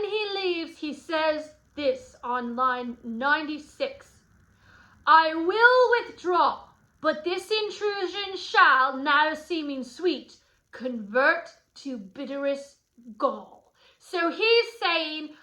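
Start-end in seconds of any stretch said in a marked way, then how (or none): 5.1-13.7 ominous parting threat. Acted. Teacher as Tybalt leaving the party, acted ominous vow.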